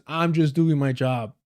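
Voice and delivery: sneering slow parody of his excuse; slow mocking quote. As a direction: drag out each word with contempt. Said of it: "That's his fucking defense".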